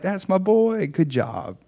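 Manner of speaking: high-pitched proud approval, acted out; approving praise. Jesus praising the husband, approving and high-pitched. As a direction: lift the praise high, then settle.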